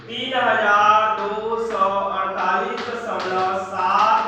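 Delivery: loud, measured number read-out; slow dictation. Real, not acted. Teacher writing the final answer for students, slow loud dictation. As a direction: stretch each part of the figure.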